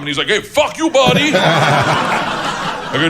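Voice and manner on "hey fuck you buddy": higher-pitched heckled performer firing back; mock indignant retort. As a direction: imitate an offended guy answering a heckler. Heckled man snaps back.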